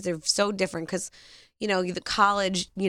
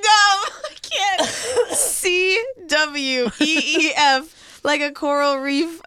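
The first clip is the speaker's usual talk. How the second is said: high, loud laugh through words; cracking up while talking; laughing hard; 6 semitones higher, 5 dB louder, slower than usual. Real, not acted. Cracking up at queef spelling.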